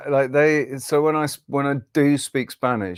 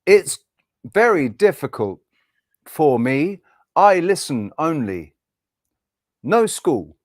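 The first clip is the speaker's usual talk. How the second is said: halting English in short separate chunks; broken learner's English; slower than usual. Acted. Spanish beginner explaining their English to a stranger, halting learner's delivery. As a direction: pause between phrases like a beginner. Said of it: "if that was a Spanish person speaking English".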